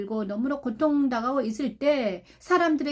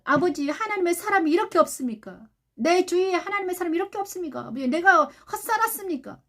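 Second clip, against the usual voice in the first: mild lament, pitched up toward the end; retold lament; 4 semitones higher than usual. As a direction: plead with God in a retold complaint. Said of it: "이렇게 탄식을 했습니다". (하나님께 탄식하듯 호소하는 말투)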